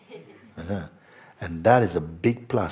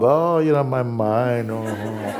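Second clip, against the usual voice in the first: pub talk parody; 2 semitones higher, slower than usual. Retold or imitated. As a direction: play a pub regular fretting about his mind. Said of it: "at the pub".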